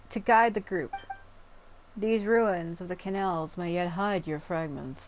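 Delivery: deep-voiced matriarch. Shown as a demonstration. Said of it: "I expect her to have, like, a deep-sounding voice".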